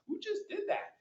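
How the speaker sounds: shrill screeching wyvern cry; pterodactyl screech. Shown as a demonstration. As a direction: screech like a pterodactyl from the back of the throat. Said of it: "I can make a pterodactyl noise".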